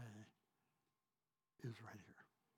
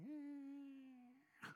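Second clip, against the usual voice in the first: high faint groan dying away; fading groan; 11 semitones higher, 10 dB quieter than usual. Retold or imitated. Preacher reliving passing out in the ambulance, faint high groan. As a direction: let a weak eh slip out as you pass out. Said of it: "I feel myself going".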